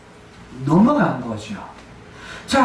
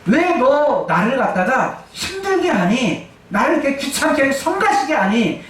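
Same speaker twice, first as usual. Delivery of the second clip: laughing annoyance. Retold or imitated. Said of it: "이런 뜻이에요".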